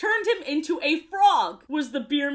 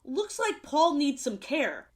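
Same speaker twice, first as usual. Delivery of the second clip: tenderly; 2 semitones higher than usual. Retold or imitated. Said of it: "Tenderheart tenderly says".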